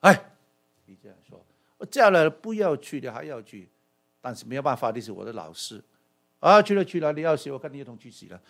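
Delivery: reluctant sigh of a disciple with no choice; resigned disciple forced to follow his teacher; grudging resignation. Shown as a demonstration. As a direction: grumble it like you've been overruled. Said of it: "他的语气就是说：".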